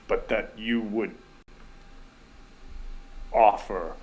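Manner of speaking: slow, grave bear-tribe spirit; solemn spirit. Acted. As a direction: speak with long, weighty pauses. Plays the spirit Koda.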